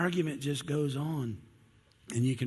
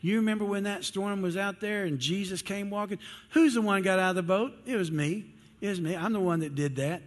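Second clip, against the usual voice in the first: boasting Peter; 6 semitones higher than usual. Retold or imitated. Peter brags to John that he's the greatest. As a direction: puff up like the rough fisherman claiming first place. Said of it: "Peter probably looks at him, he says".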